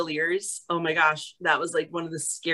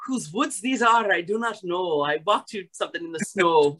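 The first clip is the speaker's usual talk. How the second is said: lilting recitation in an Irish brogue. Shown as a demonstration. Actress recalling the poem from dialect training, Irish brogue. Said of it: "this caused everybody to get dialect training".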